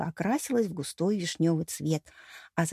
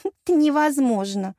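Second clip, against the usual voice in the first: higher, slow self-assured smirk; smug; 6 semitones higher, 4 dB louder, slower than usual. A narrator's reading. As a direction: savour the refusal. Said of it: "самоуверенная хмылочка".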